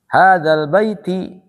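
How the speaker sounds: "Hadzal baiti" said slowly with the final i vowel sounded; full form with kasrah. Shown as a demonstration. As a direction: recite "baiti" in full, ending on i. ("baiti" dibaca lengkap dengan kasrah)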